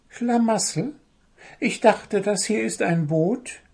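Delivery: very high little bird voice; little bird retort. A narrator's reading. Little bird talks back to the dwarf, retorting. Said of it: "gab der kleine blaue Vogel zurück".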